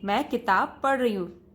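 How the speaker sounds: "मैं किताब पढ़ रही हूँ" said in one flow at a steady speed; even pace. Shown as a demonstration. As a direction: say it smoothly, every word at the same speed. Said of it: "एक संतुलन में सारे शब्द आप एक गति से बोलें". (संतुलित, एक समान गति से पढ़ना)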